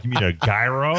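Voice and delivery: puzzled question with gyro said GUY-ro; American mispronunciation. Retold or imitated. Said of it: "we're like".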